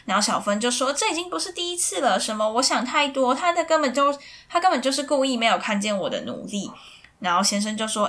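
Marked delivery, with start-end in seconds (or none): 0.9-6.7 higher, fast indignant outburst; upset protest. Retold or imitated. Wife snapping back at husband on the phone, higher and fast. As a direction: fire it back, hurt and offended.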